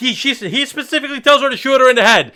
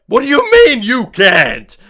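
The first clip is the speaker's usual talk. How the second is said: mock outrage; 3 dB louder, slower than usual. Voicing Raiden's outraged reply.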